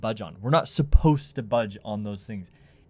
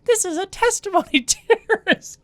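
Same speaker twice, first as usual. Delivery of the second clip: put-on very high, childlike singsong; children's Primary singsong. Co-host mocking a Primary lesson phrase, very high childish voice. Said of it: "which sounds like such a primary thing".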